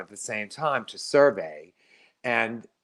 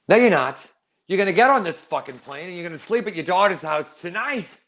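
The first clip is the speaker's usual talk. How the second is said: louder, higher stern order to his mother; forceful scolding; 5 semitones higher, 3 dB louder than usual. Retold or imitated. Son ordering his reluctant mother onto the plane, stern and loud. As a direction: lay down the law, no arguing. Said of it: "I never spoke like that to my mother".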